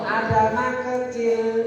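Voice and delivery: slow, stretched teaching cue; drawn-out drill. Shown as a demonstration. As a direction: hold each word for the class to follow. (aba-aba panjang dan perlahan)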